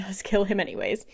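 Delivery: whispered through a laugh; half-laugh the twist under your breath. Real, not acted. Narrator giggles telling that Lorcan kills him anyway. Surprising twist in the plot recap.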